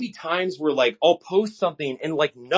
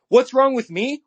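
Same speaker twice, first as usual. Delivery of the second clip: higher and louder, rising in disbelief; outraged rhetorical comeback; indignant retort; 9 semitones higher, 4 dB louder than usual. Real, not acted. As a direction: throw the question back at them. Indignant rant at critics.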